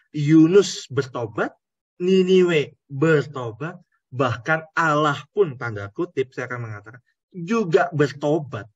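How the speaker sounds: preacher pounding the point; emphatic preaching. Real, not acted. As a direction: build the list with force. Preacher listing who repented.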